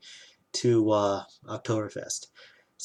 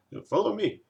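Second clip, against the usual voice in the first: imitated drunk stranger; 11 semitones higher than usual. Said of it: "and he's like".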